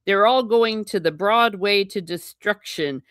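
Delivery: hammed-up tattling to the master; mock tattling servant. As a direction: call for the master in mock alarm. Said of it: "he's saying these kids are evil".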